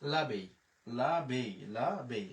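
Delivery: French l'abeille, said lah-bay; French demo, repeated. Shown as a demonstration. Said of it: "তাহলে উচ্চারণ হয়ে গেল".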